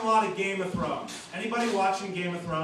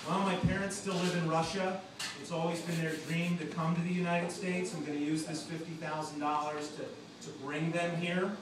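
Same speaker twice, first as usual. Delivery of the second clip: mock sincere chef; 4 dB quieter than usual. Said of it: "What are you gonna do with the money?".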